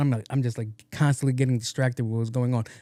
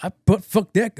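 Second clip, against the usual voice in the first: mock shout; 7 semitones higher, 4 dB louder than usual. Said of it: "he's like".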